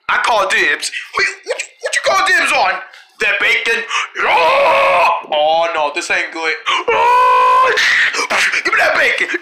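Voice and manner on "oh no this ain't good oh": playful wail. Pretend. Player losing the bacon, mock wail. Play fight over the bacon.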